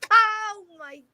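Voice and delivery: loud laughing oh my God; laughing loudly. Real, not acted. Laughing at the Aussie in snake pants, loud. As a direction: burst out laughing at the image.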